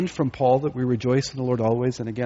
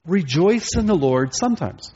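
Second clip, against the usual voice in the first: higher-pitched mock quotation; deliberate misquote; 4 semitones higher than usual. Shown as a demonstration. Preacher misquotes Paul to the congregation, mock earnest. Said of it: "No, that's not what he says".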